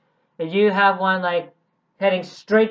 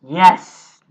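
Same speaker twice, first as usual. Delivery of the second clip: excited cheer; 13 dB louder than usual. Real, not acted. Cheering for a favourite villain.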